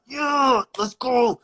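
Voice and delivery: high, loud fired-up yell; hyped shout. Retold or imitated. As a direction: shout it like the crowd's behind you. Crowd hype, fired up.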